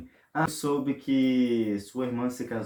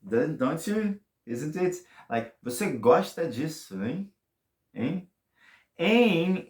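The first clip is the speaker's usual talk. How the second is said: teasing; 4 semitones higher than usual. Shown as a demonstration. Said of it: "Or you can say, like".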